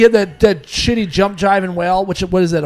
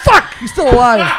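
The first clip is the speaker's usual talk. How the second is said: raised-pitch cry of comic dismay; mock frustration; 5 semitones higher, 4 dB louder than usual. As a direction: curse your bad luck, half laughing. Acting out checking the obituaries.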